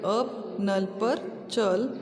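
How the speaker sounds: very slow, word by word to pupils; teacher dictating sentences very slowly; slow dictation reading. Acted. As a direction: read each sentence for children to repeat. Reads the sentences again slowly.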